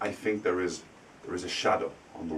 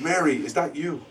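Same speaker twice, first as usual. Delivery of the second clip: raised, questioning call to Mary; uncle calling, higher; 7 semitones higher than usual. Retold or imitated. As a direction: call out to her higher, unsure.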